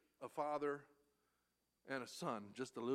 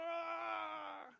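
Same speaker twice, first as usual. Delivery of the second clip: high mock scream of a frightened boy; child's scared cry; 13 semitones higher than usual. Boy running from dog.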